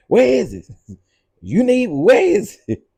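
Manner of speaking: high laughing mock question; laughing squeal. Real, not acted. Mock asking about scooter, laughing.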